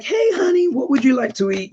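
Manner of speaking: high, bright mock-Southern waitress greeting; sweet waitress. Waitress greeting a hungry tourist, high and sweetly loud. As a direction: chirp it like a friendly older waitress. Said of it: "And she was like".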